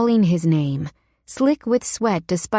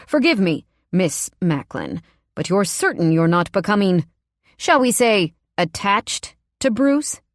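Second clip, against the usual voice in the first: a hint of silky threat; lightly voiced menacing boss; 3 semitones higher than usual. Boss insinuating to the keeper, in a silky menacing voice. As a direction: insinuate it, sly and cold.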